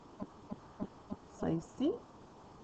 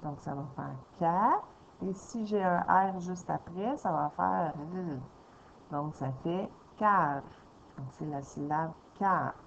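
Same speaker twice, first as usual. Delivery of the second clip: sounding out. Shown as a demonstration. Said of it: "lire tous les sons un par un".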